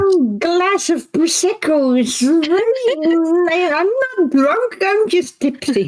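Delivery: high, slow tipsy friend voice; tipsy voice pretending to be sober; trying to sound sober. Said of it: "they're currently doing an impression of me".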